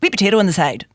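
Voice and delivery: hammed-up, hopeless Paisley accent; badly faked Glasgow accent. Waitress mimicking chef's specials for customers, bad Glasgow accent. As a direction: attempt a Glaswegian chef and fail. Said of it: "try and do it in that accent".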